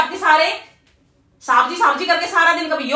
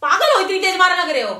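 mock pained cry; 2 semitones higher than usual. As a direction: cry out as if struck hard. Wife cries out at fake hit.

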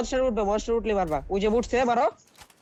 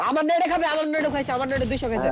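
excited; 5 semitones higher than usual. Real, not acted. Excited about damage dealt.

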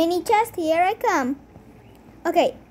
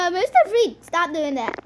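mocking echo. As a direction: parrot the name back in a raised voice. Echoing the other's protest.

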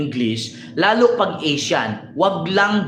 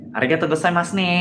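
mock Japanese; 2 semitones lower, much faster than usual. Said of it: "pag sa Japanese naman".

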